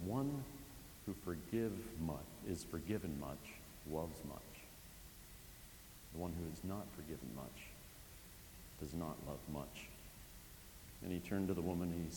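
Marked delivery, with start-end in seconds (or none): 0.1-9.9 quiet solemn teaching. Retold or imitated. Jesus teaching Simon.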